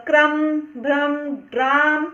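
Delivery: teacher sounds out R after K, BH and G in क्रम, भ्रम, ग्राम; demonstrated R after consonant. Shown as a demonstration. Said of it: "उस व्यंजन के बाद रा का उच्चारण होगा".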